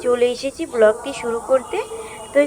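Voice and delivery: talking around a toothbrush; while brushing teeth. Real, not acted. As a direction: mouth full of toothpaste. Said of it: "রাস্তায় দাঁড়িয়ে দাঁড়িয়ে brush করছি". (দাঁত brush করতে করতে কথা)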